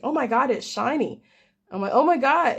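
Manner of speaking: gushing over a shiny gift; excited. Retold or imitated.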